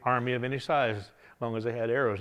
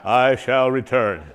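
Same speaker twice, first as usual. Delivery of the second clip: quoted vow; 2 semitones lower, 7 dB louder, slower than usual. Acted. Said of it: "Means I'll be back".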